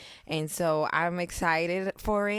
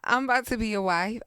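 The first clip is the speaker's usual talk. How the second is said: moved, near tears; 4 semitones higher than usual. Real, not acted. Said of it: "y'all finna make me cry".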